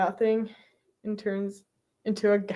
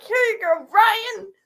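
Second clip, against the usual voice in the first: bright, higher call of his name; cheery hand-over; 9 semitones higher than usual. Pretend. Fan handing Ryan a box, calling out brightly. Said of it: "Just go up there and be like".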